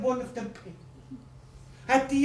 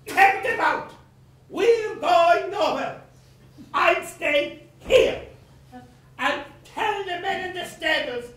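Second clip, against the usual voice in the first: louder, higher, slow orders; commanding call; 5 semitones higher, 4 dB louder than usual. Acted. Creditor ordering his servant to unhitch, slow loud call. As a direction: bark the order to his man.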